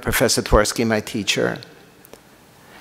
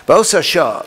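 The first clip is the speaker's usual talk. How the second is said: higher and louder, stressing Ba'osa; emphatic reading; 4 semitones higher, 5 dB louder than usual. Shown as a demonstration. Teacher reading the Midrash line aloud to the class, emphatic and louder. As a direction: declaim Ba'osa shah as a proclamation.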